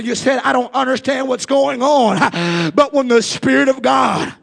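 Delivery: rising, rhythmic preacher's call; fiery preaching. Acted. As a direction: preach it to the congregation. Preaching at full force.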